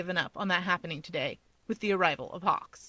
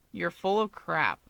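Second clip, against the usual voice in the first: dismissive; slower than usual. A narrator's reading. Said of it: "Toya dismisses".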